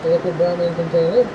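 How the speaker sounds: muffled, speaking through a respirator mask. Real, not acted. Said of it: "I'm all geared up in the respirator".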